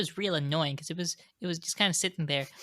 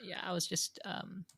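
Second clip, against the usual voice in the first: put-on Valley Girl accent; 7 dB quieter, slower than usual. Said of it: "a really respectable Valley Girl accent".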